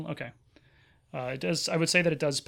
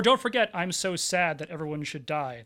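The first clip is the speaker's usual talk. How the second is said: mopey villain. Retold or imitated. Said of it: "That's a good one, too".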